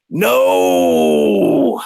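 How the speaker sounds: lightly gruff grunted no; a hint of a gruff stubborn man refusing; mock gruff refusal. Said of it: "he had this really gruff voice".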